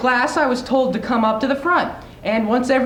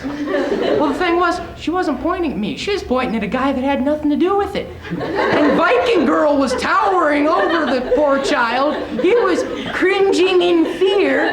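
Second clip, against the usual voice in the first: laughing; 4 semitones higher than usual. Real, not acted. Laughing while telling the story.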